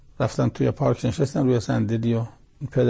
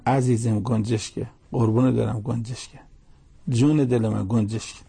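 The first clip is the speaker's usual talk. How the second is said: tender answer. Retold or imitated. Grandfather tenderly answers child.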